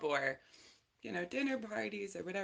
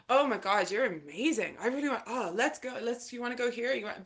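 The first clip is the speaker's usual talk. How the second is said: gushing guys; 6 semitones higher, 4 dB louder than usual. Retold or imitated. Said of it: "They were just like".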